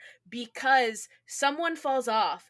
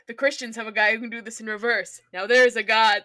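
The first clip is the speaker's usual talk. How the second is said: quoting the villain; 7 dB louder than usual. Retold or imitated. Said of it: "the way he's like".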